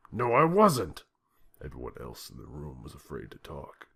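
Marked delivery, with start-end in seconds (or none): 0.1-1.0 loud, high furious yelling. A narrator's reading. President yelling at Putin over phone, furious. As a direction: yell in disbelief down the phone.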